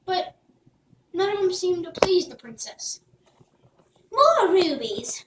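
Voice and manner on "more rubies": slow, bored, disdainful; a spoiled yawn of a line; scoffing. Acted. Spoiled princess scoffing at gifts, slow and bored. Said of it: "scoffed the princess".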